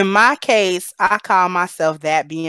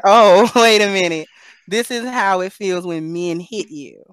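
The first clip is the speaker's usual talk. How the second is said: laughing realization; 3 dB louder than usual. Retold or imitated. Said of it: "And I was like".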